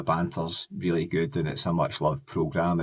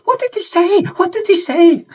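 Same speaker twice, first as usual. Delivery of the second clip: bear voice; 11 dB louder than usual. Retold or imitated. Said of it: "and then go".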